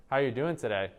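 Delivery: "How are you doing today" starting high and stepping down to a falling end; assertive downward inflection. Shown as a demonstration. Teacher showing how assertive questions sound, falling firmly at the end. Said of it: "end things on downward inflection points".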